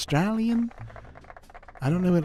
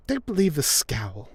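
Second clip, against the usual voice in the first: character voice. Acted. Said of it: "that's not her voice".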